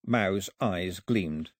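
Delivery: ordinary delivery, nothing marked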